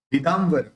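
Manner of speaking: विदाम्बर with the dot sounded as n before व, lips not closing; विदाम्बर, nasal as n, lips apart; anusvara as n. Shown as a demonstration. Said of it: "उस बिंदी का उच्चारण अपन न करेंगे".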